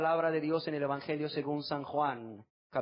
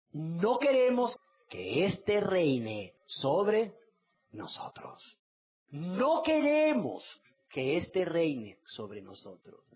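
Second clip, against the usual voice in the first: mock crowd rejecting; 2 semitones higher, much slower than usual. Citizens reject the king.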